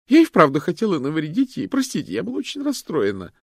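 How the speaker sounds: high, loud anxious admission; tearful confession. A narrator's reading. Loretta confesses to the detectives, high and upset. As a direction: confess it all in a rush.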